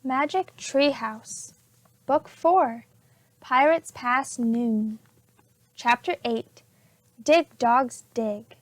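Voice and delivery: slow, measured reading of the book title. A narrator's reading. Teacher slowly announcing the book title to the class.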